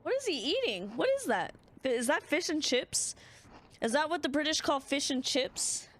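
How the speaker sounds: puzzled by the strange snack; incredulous questions at the screen; surprised. Real, not acted. Reacting to detective's food.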